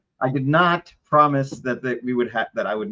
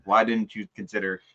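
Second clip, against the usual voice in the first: a faint fake Italian accent; understated mock Italian accent; bad Italian accent; 5 dB quieter than usual. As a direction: lightly mimic an Italian angel. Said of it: "in a bad Italian accent".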